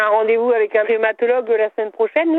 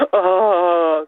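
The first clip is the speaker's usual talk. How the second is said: lower ah; 4 semitones lower than usual. Real, not acted. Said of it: "Non, un peu plus grave".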